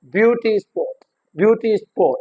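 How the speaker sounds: "ब्यूटी स्पॉट" with ब्यूटी prominent, स्पॉट falling; stress on ब्यूटी. Shown as a demonstration. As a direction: hit the first word ब्यूटी. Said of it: "जो first word होगा".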